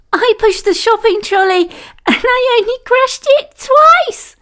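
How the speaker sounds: fast, very high, rising to a squeal; giggly girl. A narrator's reading. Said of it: "giggled Anika".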